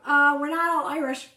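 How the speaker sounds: loud, high, laughing retelling; retold news-breaking. Host retelling how she broke the Irish news, laughing. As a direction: break the news through laughter, mock announcement. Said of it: "she's like".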